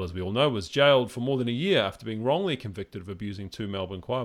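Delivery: steady newsreader reading of the article; news article read. Acted. Podcast host reading The Australian to co-host, news read. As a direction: read the report out straight and even. Reads a newspaper article aloud.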